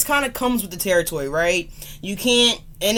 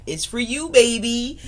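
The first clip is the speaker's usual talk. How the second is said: flirty dedication; 5 semitones higher than usual. Real, not acted. Affectionate dedication to viewers.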